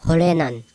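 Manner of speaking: horenan with R blended toward L; RH sound. Shown as a demonstration. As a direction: say horenan with L and R put together. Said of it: "R H sound".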